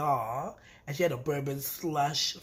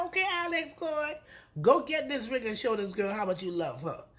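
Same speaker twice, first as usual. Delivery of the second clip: much higher, eager cheer; excited urging; 5 semitones higher than usual. Retold or imitated. Vlogger cheering Alex to propose, squealed high. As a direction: squeal him on to get the ring. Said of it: "I was like".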